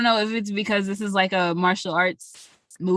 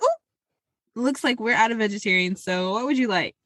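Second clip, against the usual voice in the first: mock waitress voice. Friend retelling the movie, lightly mimicking the waitress. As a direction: play the server breaking bad news. Server voiced in retold scene.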